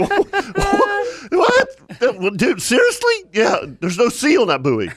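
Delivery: high, laughing what-the-heck disbelief; imitating stunned buddies cracking up over the sea buoy. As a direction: squeal it out like you can't believe him. Disbelieving friends, laughing at story.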